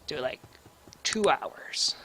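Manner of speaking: soft unvoiced aside; quiet whispered time choice. Real, not acted. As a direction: murmur it under the breath.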